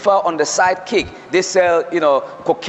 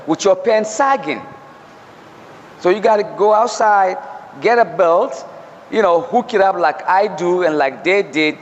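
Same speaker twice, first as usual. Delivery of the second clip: put-on firm, serious lecture to a young man; stern warning. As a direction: tell him straight, no joking. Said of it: "he realized I was so serious".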